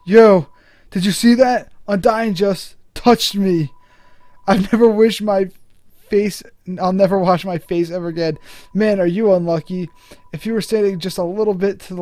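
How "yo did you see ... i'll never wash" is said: excited fanboy. Real, not acted. Fanboy excitement after meeting.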